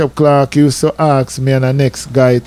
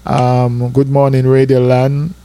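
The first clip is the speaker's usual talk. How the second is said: radio greeting; 4 semitones lower than usual. Retold or imitated. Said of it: "And I was like".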